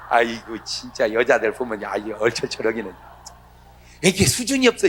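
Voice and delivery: usual speaking voice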